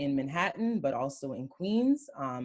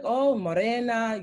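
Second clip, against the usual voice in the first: teasing people; 6 semitones higher, 6 dB louder, slower than usual. Retold or imitated. People teasing about her skin.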